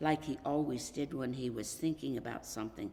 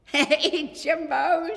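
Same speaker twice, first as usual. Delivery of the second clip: high, louder friendly hail; cheerful greeting; 11 semitones higher, 12 dB louder, much slower than usual. A narrator's reading. Boy greeting his friend at the door, cheerful. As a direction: greet your buddy brightly.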